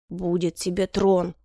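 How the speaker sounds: slow, restrained reply; resigned assurance. A narrator's reading. Emperor promises the favourite her throne, resigned. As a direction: concede slowly and evenly.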